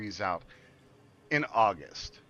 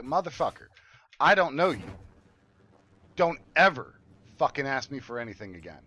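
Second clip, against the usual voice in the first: raised, louder telling-off; angry retort; 4 dB louder than usual. Retold or imitated. Telling off the coworker who lied, in raised anger. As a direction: cut him off hard and loud.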